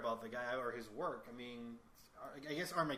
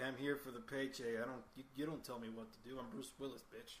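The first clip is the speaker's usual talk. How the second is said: Bruce Willis impression; 2 semitones lower, 5 dB quieter than usual. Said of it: "he's just sort of like".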